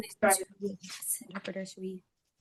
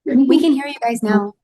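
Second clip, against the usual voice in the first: slow, raised voice over a bad line; loud and slow; 4 semitones higher, 6 dB louder than usual. Real, not acted. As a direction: call it out so they hear. Calling over bad Zoom line.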